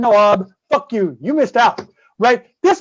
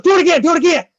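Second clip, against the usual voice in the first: eager excitement; 6 semitones higher, much faster than usual. Retold or imitated. Ob begging for more.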